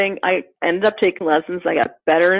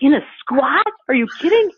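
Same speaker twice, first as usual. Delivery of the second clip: incredulous; 8 semitones higher than usual. Retold or imitated. Her reaction to coach's order.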